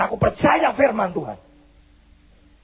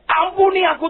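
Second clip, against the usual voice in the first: high, pleading acted cry; raised, imploring call; 9 semitones higher than usual. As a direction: cry out for mercy as the desperate father. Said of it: "Dan Bapak ini teriak".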